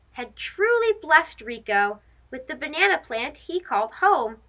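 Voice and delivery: gentle read-aloud storytelling; story narration. A narrator's reading. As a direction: read to children at bedtime.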